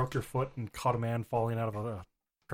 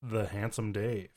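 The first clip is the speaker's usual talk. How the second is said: sultry; 3 semitones lower, 5 dB quieter, slower than usual. Acted. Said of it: "you got all sultry into the mic".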